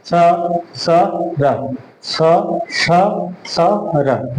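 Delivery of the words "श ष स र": स, स, स as three distinct sibilants, then र; correct pronunciation. Shown as a demonstration. Teacher modelling the thirteenth sutra, sibilants kept apart. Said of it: "ये शुद्ध उच्चारण है इसका".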